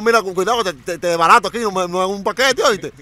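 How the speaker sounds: threatening warning. Retold or imitated.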